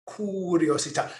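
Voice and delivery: curiosità with a rolled Italian r, kur-ee-oh-zee-TAH, stress on the final TAH; Italian accent. Shown as a demonstration. Teacher repeats the Italian word for the class, in an Italian accent. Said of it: "Say it in your best Italian accent".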